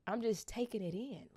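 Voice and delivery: soft breathy whisper, overcome; hushed, almost tearful; whispered awe. Real, not acted. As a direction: whisper it as if it's sinking in. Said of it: "Now I'm about to cry".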